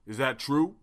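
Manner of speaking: lightly put-on stately questioning; mock orator pressing for an answer; Martin Luther King. Guest confronting hosts about his movie, orator impression. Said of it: "Martin Luther King".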